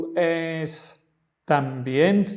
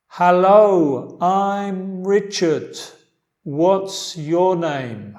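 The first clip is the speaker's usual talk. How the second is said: slow model line; 3 semitones higher, 5 dB louder, much slower than usual. Shown as a demonstration. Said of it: "Yo lo voy a decir la parte de A".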